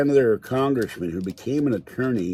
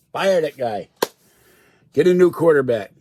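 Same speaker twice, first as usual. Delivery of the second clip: fan shouting; 5 semitones higher, 9 dB louder than usual. Real, not acted. Fan yelling at his team.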